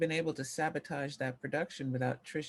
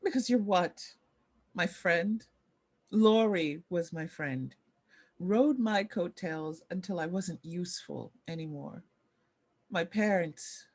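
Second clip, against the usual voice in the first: louder, bitter outburst at a betraying friend; bitter hurt; 5 dB louder than usual. Acted. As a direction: let the hurt burst out loud and bitter. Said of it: "A deep hurt surfaces".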